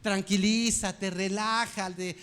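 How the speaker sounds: slow, stretched-out soothing words; acted slow reassurance; self-calming patience. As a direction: play God calming himself, drawing each word out. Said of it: "así ha de estar Dios el día de hoy con nosotros".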